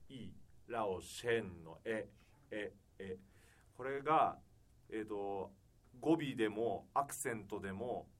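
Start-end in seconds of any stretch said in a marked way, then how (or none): 0.1-3.2 slow, soft "エ" sound demo; careful slow "エ、エ"; E vowel demo. Shown as a demonstration. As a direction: show the German E cleanly. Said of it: "Eの発音ですよね".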